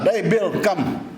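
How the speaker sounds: mild imitation of a yelled hello; Obama yelling out. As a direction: hail a friend, lightly acted. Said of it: "Obama drives in and yells out".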